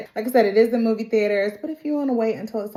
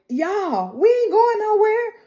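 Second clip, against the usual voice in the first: higher, cocky put-on voice for Moto; Moto's put-on voice; 12 semitones higher than usual. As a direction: play the Komodo dragon smug and sure. Moto reveals team stays.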